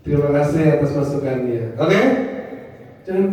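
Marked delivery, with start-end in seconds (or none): 0.1-1.8 polite thanks. Shown as a demonstration. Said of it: "Jadi kalau dikritik".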